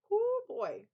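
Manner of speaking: high, loud excited whoop. Real, not acted. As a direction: let out a flustered whoop. Fanning herself over book hero.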